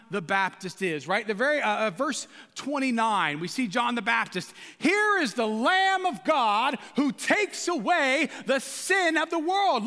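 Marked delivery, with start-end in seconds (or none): 4.8-9.8 energetic proclamation. Shown as a demonstration. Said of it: "there's an exclamation point".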